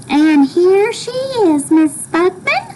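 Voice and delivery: high, slow, gentle character voice. A narrator's reading. William Spiver presenting Flora to her mother, very gently. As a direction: say it gently, pitched high and unhurried. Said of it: "in a very gentle voice".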